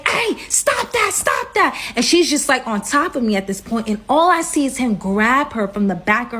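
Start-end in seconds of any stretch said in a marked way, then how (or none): 0.1-1.8 commanding. Retold or imitated. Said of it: "Bank Robber Bay go and say".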